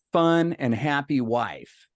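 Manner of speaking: slow, savoured words; dawning delight. Retold or imitated. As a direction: let each word land as a happy vision. Savours the pictured outcome.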